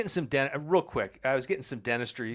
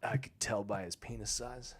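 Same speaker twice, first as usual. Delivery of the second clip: unvoiced deadpan whisper; 4 semitones lower, 6 dB quieter than usual. Real, not acted. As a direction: whisper it as a joke.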